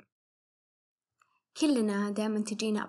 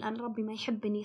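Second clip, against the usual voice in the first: despairing whisper; 4 dB quieter than usual. Retold or imitated. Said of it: "ما يقولون".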